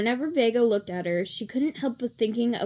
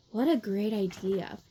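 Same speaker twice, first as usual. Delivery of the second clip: dreamy voice; 4 dB quieter than usual. Acted. Sleepy Piper delighted.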